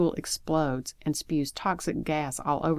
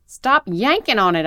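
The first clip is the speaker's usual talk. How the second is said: high, loud shouted order; urgent full-voiced yell; 6 semitones higher, 10 dB louder than usual. A narrator's reading. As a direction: yell to make someone stop. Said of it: "I yelled".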